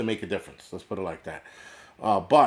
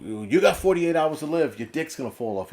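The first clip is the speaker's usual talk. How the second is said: higher, louder mock alarmist announcer; a hint of a breathless doom prophet; mock doomsday YouTuber; 5 semitones higher, 5 dB louder than usual. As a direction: ham up a fearmongering video host. Mocking alarmist YouTuber videos.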